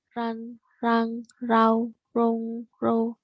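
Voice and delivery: "Ran, rang, rau" with an English style r. Shown as a demonstration. Teacher demos Mandarin r like English. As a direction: roll into "rong" like English r. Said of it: "agak versi bahasa Inggris gitu".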